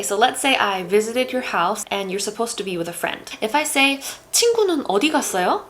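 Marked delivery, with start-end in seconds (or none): 4.3-5.6 어디 punched high, as "where?"; stress on 어디. Shown as a demonstration. Asking where your friend went, stress on 어디. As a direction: hit 어디, let 갔어요 follow. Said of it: "I'm placing the emphasis on 어디".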